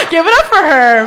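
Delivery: loud hype shout to the crowd; applause call. Real, not acted. Comic cheering the audience member going to therapy. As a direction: demand applause, full voice.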